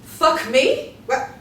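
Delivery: loud furious taunt; angry shouting. Acted. Wendy screams insults at the fisherman. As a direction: scream it across the water.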